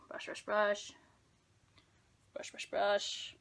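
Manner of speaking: whispered, slowing brush chant; soft whispered counting of strokes. Real, not acted. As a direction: whisper each stroke to yourself.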